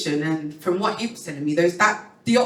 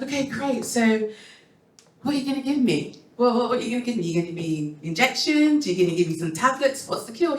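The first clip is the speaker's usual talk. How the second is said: higher, quick eager asking; eager questions; 6 semitones higher, faster than usual. Retold or imitated. Patient pressing her doctor for a cure, eager and high. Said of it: "I was like".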